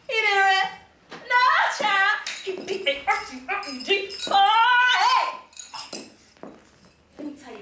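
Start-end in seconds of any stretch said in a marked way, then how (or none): 0.1-2.2 exclaiming. Acted. Topsy exclaims about God partying. 2.4-5.4 loud, high, stretched-out whoop; whooping party cry. Acted. Party girl declaring God partied, whooping.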